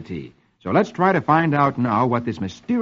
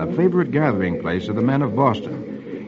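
measured comic-strip reading; old-time radio storyteller; story narration. A narrator's reading. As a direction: read the story out to a child.

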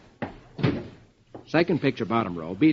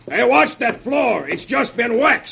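higher, slow warning yell; sergeant yelling; 9 semitones higher, slower than usual. Acted. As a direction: call out a sharp warning. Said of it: "The sergeant yells".

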